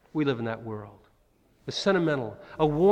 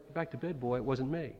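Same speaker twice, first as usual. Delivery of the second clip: sleepy dismissal; 9 dB quieter than usual. Retold or imitated. Sleepy priest sends boy back.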